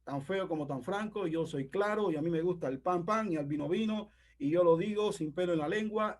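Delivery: mildly mocking the gruff know-it-all; blunt braggart. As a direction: lightly play the proud straight-talker. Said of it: "Ese es el carácter".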